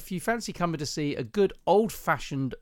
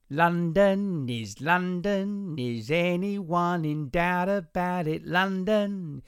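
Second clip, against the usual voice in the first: slow, drawn-out mock London sing-song; hammed-up Cockney London drawl, higher in pitch; bad London accent; 4 semitones higher, much slower than usual. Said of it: "doing a really shit London accent".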